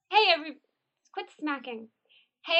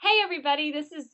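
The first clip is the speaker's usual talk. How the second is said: perky; 3 semitones higher, faster than usual. Real, not acted. Actress recording a promo intro for listeners, perky. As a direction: greet the listeners a little too perkily. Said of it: "that was so perky".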